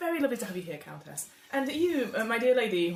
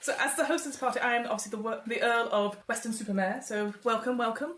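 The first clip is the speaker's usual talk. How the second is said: raised, hearty aristocratic host voice; genial Earl host; 2 semitones higher than usual. Acted. The Earl of Weston-super-Mare welcoming guests to his club, hearty and raised.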